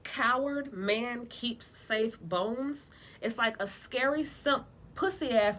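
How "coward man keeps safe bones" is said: Jamaican proverb. Retold or imitated. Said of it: "If you hear that".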